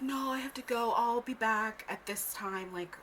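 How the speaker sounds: slow and offhand dismissal; mock dad brushing off his daughter; imitating dad leaving. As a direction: brush her off slowly. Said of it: "he was like".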